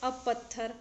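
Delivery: measured verse reading with pauses between phrases; poetry recitation. Acted. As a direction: recite each line deliberately, letting the endings fall. Recites her second poem.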